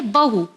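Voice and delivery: बहू with a short first "a"; don't stretch the first vowel of बहू; बहू said as ba-hoo, short and clipped; correct short vowel. Shown as a demonstration. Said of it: "इसे खींचना नहीं है".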